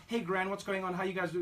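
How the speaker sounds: lightly mocked twanging foreign accent. Grandson greeting his grandmother, twanging accent. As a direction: put on a twang for Gran. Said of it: "I can't come in twanging there".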